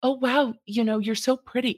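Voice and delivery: lightly mock a leering professor; creepy flatterer. Mocking a creepy professor, high and breathy. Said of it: "not hard to not be like".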